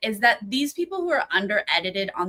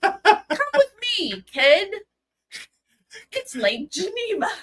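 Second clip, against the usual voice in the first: put-on very high-pitched, slightly old-timey, slightly southern accent; 12 semitones higher, 4 dB louder than usual. Imagining a scene, the speaker voices Jeffrey: old-timey southern Jeffrey voice. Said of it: "I'm trying to be a little old timey".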